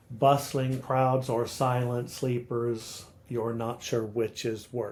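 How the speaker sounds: slow, measured "Bustling crowds or silent sleepers", beats marked; rhythmical verse reading. Shown as a demonstration. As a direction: recite "Bustling crowds or silent sleepers" to a regular alternating beat. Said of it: "it's rhythmical along, um, an iambic meter".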